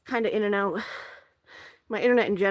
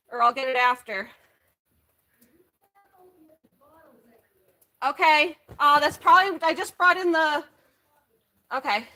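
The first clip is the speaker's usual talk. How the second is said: raised, higher voice across rooms; calling out; 4 semitones higher than usual. Real, not acted. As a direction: call out to mom in another room. Calling back and forth with mother.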